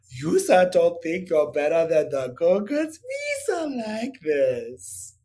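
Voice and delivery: hammed-up huffy Gungan leader; petty Gungan boss. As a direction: puff up like a smug petty ruler.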